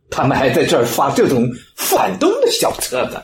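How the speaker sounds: fast, laughing as he talks; gleeful snitching through laughter; laughing taunt. Acted. Bald man showing police the booklets, laughing taunt.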